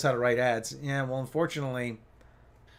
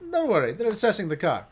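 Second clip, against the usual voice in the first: higher-pitched mock Italian accent; Italian mechanic; 5 semitones higher, 3 dB louder than usual. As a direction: reassure as a caricature Italian mechanic. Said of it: "typical Italian mechanic".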